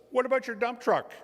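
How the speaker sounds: high, loud call after someone running off; high shouted call across the street; calling after him. Acted. Robin calls after running man.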